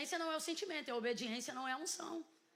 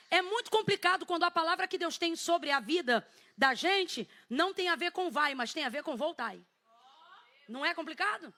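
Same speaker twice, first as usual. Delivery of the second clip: ordinary delivery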